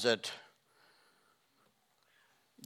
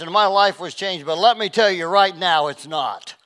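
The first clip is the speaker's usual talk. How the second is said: loud, rising jeer at a believer; mocking taunt; 4 semitones higher, 5 dB louder than usual. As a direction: throw his faith back at him with a sneer.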